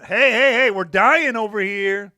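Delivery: loud, high panicked yelling; panicked shout. Retold or imitated. Disciples yelling to Jesus over the storm, panicked shout.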